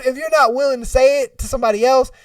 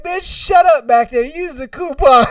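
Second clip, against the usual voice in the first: high, loud and amused yell; mock scolding comeback; 6 semitones higher, 5 dB louder than usual. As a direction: shout them down for laughs. Acting out the blasting comeback.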